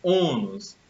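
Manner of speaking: Ônus with a weighted, held first O; stress on first syllable. Shown as a demonstration. Teacher showing the tonic syllable, stress on Ô of Ônus. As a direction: lean on the Ô of Ônus, then let nus fall. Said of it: "a sílaba pronunciada com mais força".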